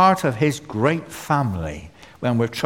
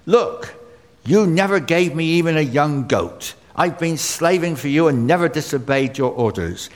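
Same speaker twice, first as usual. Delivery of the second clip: snapping back at his father; elder son bitterly complaining to his father, indignant; resentful son; 4 semitones higher than usual. Retold or imitated. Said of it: "the way he spoke to his father".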